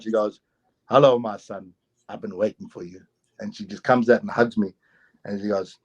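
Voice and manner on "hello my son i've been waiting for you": lower, understated motherly greeting; gentle old woman. Retold or imitated. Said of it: "she smiles".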